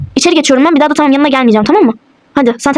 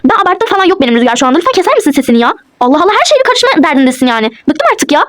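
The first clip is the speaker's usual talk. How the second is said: mild scolding outburst; fed up, telling someone off without full shouting; annoyed raised voice; 2 semitones higher than usual. Acted. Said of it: "lütfen bağırma".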